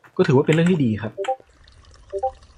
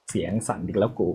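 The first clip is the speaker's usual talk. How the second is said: shaky scared voice; 5 semitones lower, 5 dB quieter than usual. Real, not acted.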